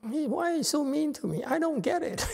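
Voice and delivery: a choked-up plea to his late teacher; real emotion, pitched high and fast; emotional. Real, not acted. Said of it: "I get emotional".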